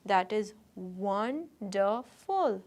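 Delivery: "wonderful" said slowly, won-der-ful; slow syllables. Shown as a demonstration. Teacher sounding out "wonderful" for the class. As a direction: spell out "wonderful" in slow beats. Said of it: "three syllable word".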